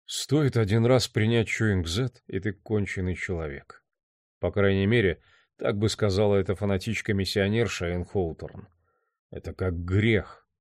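lightly voiced inner monologue, soft; quiet, understated reflection; brooding man's thoughts. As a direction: muse gloomily to yourself.

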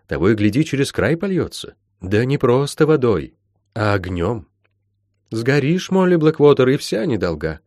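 lightly voiced mentor, urgent and lilting; warning healer. Healer warning Molly about her growing power, urgent. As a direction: press the danger home in character.

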